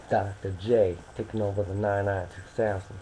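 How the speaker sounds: light mock American accent, announcer flair; put-on American accent. Introducing himself as Doctor J in a mock American accent. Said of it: "that was my American voice".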